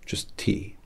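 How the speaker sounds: soft unvoiced whisper; whispered aside. Hatter tells the customer his nickname in a whisper. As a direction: let it slip out as a private joke.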